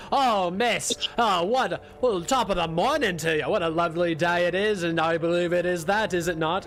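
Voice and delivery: smooth-talking charmer. Acted. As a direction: lay on the flattery to distract her. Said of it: "he steps forward and he goes".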